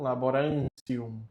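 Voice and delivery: laborantium with the ti said as tsi, ending tsium; laborantium, ti sounded like tsi; church Latin pronunciation. Shown as a demonstration. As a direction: say laborantium as labo-ran-tsium. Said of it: "E com o final um fica ticium".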